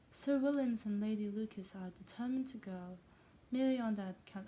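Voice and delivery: put-on failed English accent sliding toward Scottish; Scottish-tinged fake English. Wife reporting the neighbours' plans, badly faked English accent. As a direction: sound like a Scot attempting English. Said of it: "I sound like a Scottish person trying to sound English".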